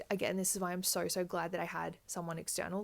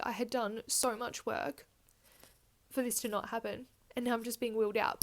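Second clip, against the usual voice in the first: getting emotional; 3 semitones higher than usual. Real, not acted. Mother recalling being wheeled to theatre, emotional and near tears. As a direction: voice lifting as real feelings catch her. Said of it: "I didn't think I'd get emotional about this".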